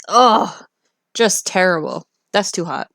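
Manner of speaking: disgusted. Real, not acted. Reacting to thirty degrees.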